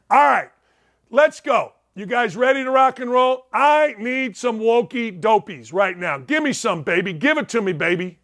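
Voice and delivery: excited hype-man energy; hyped up. Real, not acted. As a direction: rev the audience up. Hyping up for next segment.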